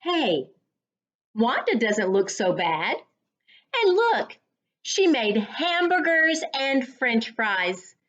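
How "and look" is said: excited cry. A narrator's reading. Kid excited at lunch.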